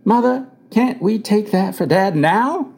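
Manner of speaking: high, drawn-out eager plea; excited. A narrator's reading. Boy asking his mother at father's bedside, excited. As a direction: plead with mother, a child's hope in it. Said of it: "I felt a tremendous excitement".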